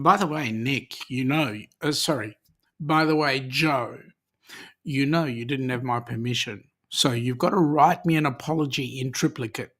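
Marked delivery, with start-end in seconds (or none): 4.8-9.7 mock-serious scolding, said deadpan; mock stern. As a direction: pretend to be strict about permission. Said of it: "No, I'm just kidding".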